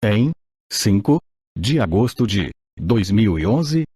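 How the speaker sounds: robotic text-to-speech voice; even, machine-read narration. Real, not acted. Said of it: "com a utilização de voz sintetizada". (voz sintetizada antiga)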